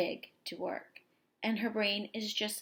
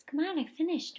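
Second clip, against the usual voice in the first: excited call; 6 semitones higher, 3 dB louder than usual. Acted. Girl calls her dog excitedly.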